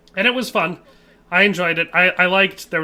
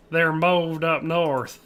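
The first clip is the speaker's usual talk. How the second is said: slow, put-on broken-English accent; slow mock accent reading a viewer's chat; mock foreign accent; much slower than usual. Reading chat message aloud.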